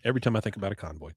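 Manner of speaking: soft, hushed, pretending to be overcome; mock choked up. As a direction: feign getting emotional, dropping the volume. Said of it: "I'm getting so choked up".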